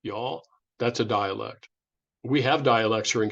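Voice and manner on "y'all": mock Texas "Y'all" with a rising lilt; Texas drawl. Lecturer showing a Texas dialect in a mild Texas accent. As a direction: lightly imitate a Texan accent saying "Y'all". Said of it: "parts of Texas who tend to say".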